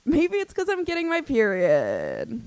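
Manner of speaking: gasp, then high, loud epiphany; real excited gasp of realization; sudden realization. Real, not acted. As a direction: blurt it out as it dawns on you. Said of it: "what the fuck was I saying".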